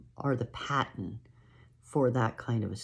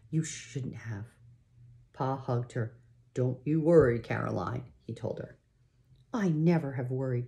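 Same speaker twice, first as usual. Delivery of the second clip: unhurried read-aloud storytelling voice; story narration. A narrator's reading. Parent reading a pioneer story to a child, storytelling voice. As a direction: read the chapter like a bedtime story.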